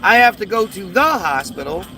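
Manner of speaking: "the" set apart and punched; stress on the. Shown as a demonstration. American contrasts British missing words, stressing "the". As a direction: lean hard on "the" before hospital.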